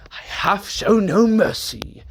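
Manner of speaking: whispered menacing aside. Acted. Villain whispering to the others. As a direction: hiss it under your breath.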